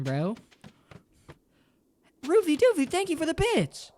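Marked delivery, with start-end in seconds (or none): 2.3-3.9 high, loud thank-you holler; excited shout-out. Real, not acted. Streamer thanking a viewer for bits, high excited shout-out. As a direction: call out thanks in a high-pitched cheer.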